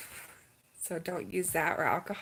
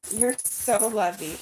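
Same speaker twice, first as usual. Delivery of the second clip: tender cooing; 5 dB louder, slower than usual. Real, not acted. Cooing to dog.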